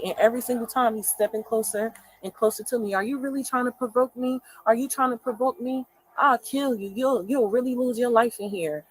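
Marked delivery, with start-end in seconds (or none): 3.0-8.8 higher, louder mock menace of the boyfriend; mimicked threat. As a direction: imitate his threat as he steps closer. Quoting boyfriend's threat, escalating.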